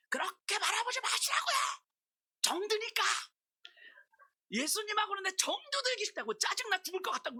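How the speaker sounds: very high, straining outcry at Jesus; retold exasperated yelling. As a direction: re-enact a worked-up, screamed protest. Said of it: "막 소리 질렀어요".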